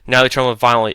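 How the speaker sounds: ordinary delivery, nothing marked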